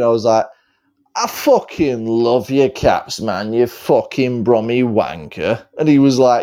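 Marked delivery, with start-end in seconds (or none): 1.2-5.6 slow, drawn-out Brummie mimicry; teasing impersonation of a Brummie mate; Caps. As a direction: drag out the affectionate insult. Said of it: "talk like Caps".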